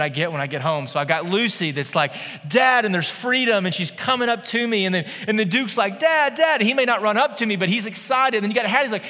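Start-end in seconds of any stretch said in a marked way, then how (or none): 2.5-2.8 put-on excited toddler. Lucy greeting dad again. 6.0-6.6 high, eager double call of Dad; a small boy thrilled that dad is home; excited little boy. Retold or imitated. Four-year-old greeting dad.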